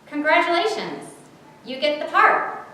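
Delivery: high, loud, warm congratulations; glad, lifted and welcoming. A narrator's reading. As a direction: announce the good news warmly. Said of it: "the voice again warmly".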